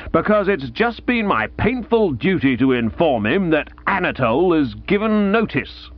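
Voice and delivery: a touch of grim triumph in the aunt's telling, given plain; aunt reporting the loss, flatly bitter; lightly voiced aunt, bitter. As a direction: break it to him coolly. Aunt Dahlia voiced in narration.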